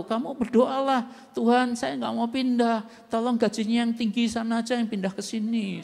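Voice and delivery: annoyed advice. Retold or imitated. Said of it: "Karena kesel".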